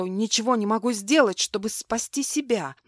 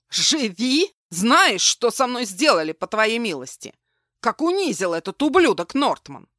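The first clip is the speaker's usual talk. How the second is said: громко и выше, с яростью; выплеснуть обиду; злобный крик; 5 dB louder than usual. Acted. Злодей кричит на героиню. (громкий злобный упрёк)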